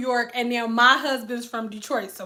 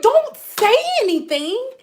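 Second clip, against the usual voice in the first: frantic hush; 11 semitones higher, 4 dB louder than usual. Retold or imitated. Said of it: "I'm like".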